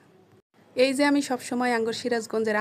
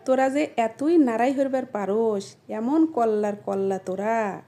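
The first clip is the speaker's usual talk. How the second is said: Sirajganj dialect. Shown as a demonstration. Scolding a group for quarrelling, Sirajganj dialect. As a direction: scold like a Sirajganj local, slowing down. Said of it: "এই কথাটাকে আমরা বলি".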